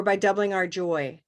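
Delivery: "by doubling our joy" run together as one piece; longer chunk. Shown as a demonstration. Teacher offering another option, "by doubling our joy" as one unit. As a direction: join "by doubling our joy" without a pause, then stop. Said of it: "break it up into smaller pieces".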